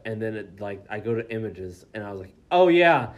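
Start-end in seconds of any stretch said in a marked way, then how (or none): 2.5-3.1 high, loud retold outburst; loud mock realization. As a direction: burst out as if it all comes back. Retelling looking up shocking images.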